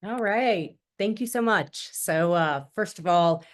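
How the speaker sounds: stuffy blocked-nose voice. Real, not acted. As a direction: talk through a blocked nose. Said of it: "if I sound like I have a little bit of a clothespin on my nose".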